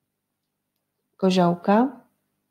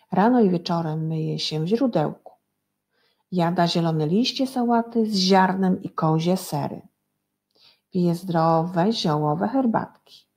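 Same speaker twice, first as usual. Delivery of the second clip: measured, clearly articulated read-aloud; story reading to children. Acted. Teacher reads pupils a text about Dyzio, story reading.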